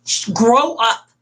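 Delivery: mildly stern retold scolding; acted tough-love firmness; stern and mean. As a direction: tell them off firmly, without raising your voice. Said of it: "being really stern and mean with her".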